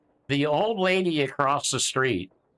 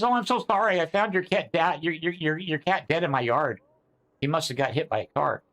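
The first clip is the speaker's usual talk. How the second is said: neighbor's fake sympathy; 4 semitones higher than usual. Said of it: "She says".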